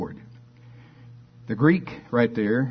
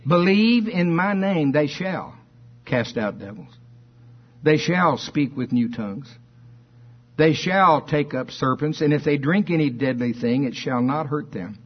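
preaching scripture; 3 semitones higher than usual. Real, not acted. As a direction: proclaim each promise with force, stretching key words. Declaims scripture to congregation.

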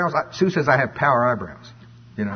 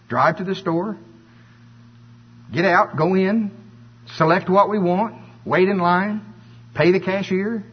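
tedious listing; 5 semitones higher than usual. Acted. Acts out reciting a tedious procedure.

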